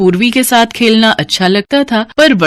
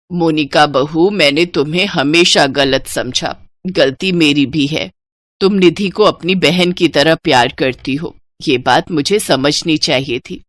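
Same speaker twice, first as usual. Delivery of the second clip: lightly voiced remorseful mother-in-law; 6 semitones lower than usual. (हल्की सी बुज़ुर्ग सास की धीमी, पछतावे भरी आवाज़)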